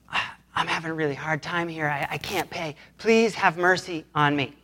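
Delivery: soft, subdued plea; acted pleading. Debtor begging a fellow servant for mercy, softly pleading. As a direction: beg quietly, slowing on the final plea.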